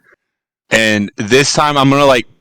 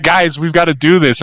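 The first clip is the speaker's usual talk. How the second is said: higher-pitched mock urgency; urgent pleading onlooker; 6 semitones higher than usual. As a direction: lightly act out urging the group on. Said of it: "He's like".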